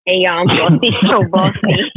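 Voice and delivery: giggling through her own name; laughing intro. Real, not acted. Cohost laughing while introducing herself. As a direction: laughs mid-intro, then pushes on. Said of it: "I gotta do the intro".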